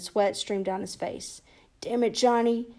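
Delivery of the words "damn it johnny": begging. Acted. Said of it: "he begged".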